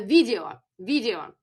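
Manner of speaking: "video" modelled as the Russian loanword; teacher's demo of "video" with a Russian accent; Russian pronunciation. Shown as a demonstration. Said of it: "So let's do one more".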